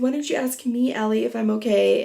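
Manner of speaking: lightly imitated drama queen whine of complaint; mock dramatic. James complaining to Allie that she never asked, mock dramatic. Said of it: "he's, like, all dramatic".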